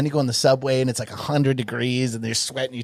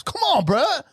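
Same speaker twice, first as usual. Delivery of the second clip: much higher, slow furious outburst; a stranger snapping at Preacher for walking through his photo; instant rage; slower than usual. Retold or imitated. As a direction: go from zero to ten at once. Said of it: "Just on ten immediately".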